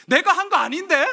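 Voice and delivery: high, loud comic outburst; mock-aggrieved yelp; indignant protest. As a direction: blurt your innocence in disbelief.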